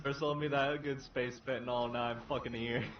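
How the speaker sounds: put-on Mexican accent. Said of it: "I wish I could put on a better Mexican accent".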